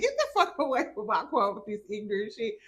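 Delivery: mock angry yell through laughter; laughing retold telling-off. Vlogger retelling how she ran off the man, laughing. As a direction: bark it while cracking up.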